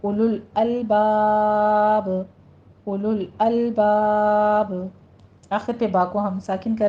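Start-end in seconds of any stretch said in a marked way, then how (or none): 0.0-4.9 उलुल अलबाब slow, unmarked alifs skipped and joined; उलुल अलबाब recited slowly as one flow; joined reading. Shown as a demonstration. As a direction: glide उलुल अलबाब together, drawing out बाब. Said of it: "मिला के उनको पढ़ना है".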